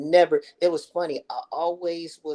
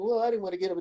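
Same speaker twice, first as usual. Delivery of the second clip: lightly voiced stubborn mother; 7 semitones higher, faster than usual.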